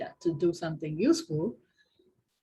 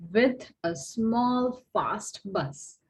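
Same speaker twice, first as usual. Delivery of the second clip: "small" drawn out slowly for emphasis; slow, deliberate weight on "small"; stress on small; 3 semitones higher, much slower than usual. Real, not acted. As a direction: lean on the word "small", slowing right down. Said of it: "Now I emphasize the word small".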